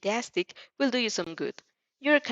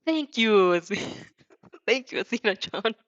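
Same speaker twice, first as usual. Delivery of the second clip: exclaiming; 3 dB louder than usual. Acted. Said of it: "he exclaims".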